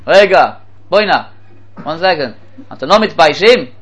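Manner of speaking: indignant cab driver, mildly heated; mock-outraged interruption. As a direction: scold with punchy outrage. Acted cab driver scolding passenger.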